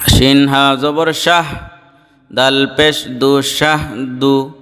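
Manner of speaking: measured, level spelling chant with held endings; recitation drill. Shown as a demonstration. Teacher leading students letter by letter, measured recitation drill. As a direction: chant the spelling, then draw out the joined word.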